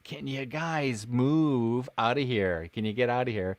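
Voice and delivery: slow, drawn-out request to clear the shot; retold exasperated plea. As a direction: plead with bystanders, stretching the words.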